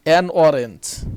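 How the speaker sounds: An orange said very slowly; drawn-out classroom demo; slow model reading. Shown as a demonstration. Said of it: "teacher reads example". (খুব ধীরে পড়া)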